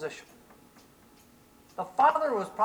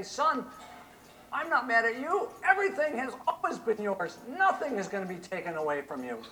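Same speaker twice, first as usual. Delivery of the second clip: loving father; 5 semitones higher than usual. Acted. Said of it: "the father had the audacity to say".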